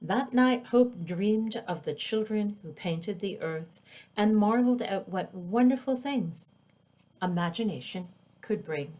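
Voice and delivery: put-on gentle, lilting read-aloud for kids; storybook narration; children's story narration. A narrator's reading. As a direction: read it like bedtime story time. Author reads picture book aloud.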